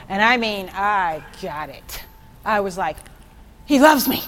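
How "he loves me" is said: excited cry. Retold or imitated. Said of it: "Sorry, I do that sometimes".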